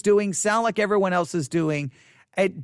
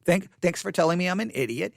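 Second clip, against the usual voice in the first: sarcastic thanks; 3 semitones lower than usual. Retold or imitated. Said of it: "You'll be like".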